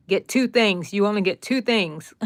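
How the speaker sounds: a mother setting a strict limit at the store; firm mom rule. Retold or imitated. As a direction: stress on two, firm and clipped. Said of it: "I'd say".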